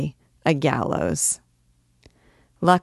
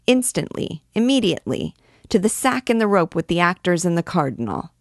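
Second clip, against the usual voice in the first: angry mob cry; 2 semitones higher than usual. Acted. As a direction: rage at the actors. Mob threatens the actors.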